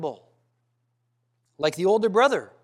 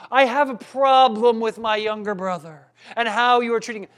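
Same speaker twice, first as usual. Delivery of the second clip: respectful son; 5 dB louder than usual. Retold or imitated. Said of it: "We might expect this boy to say".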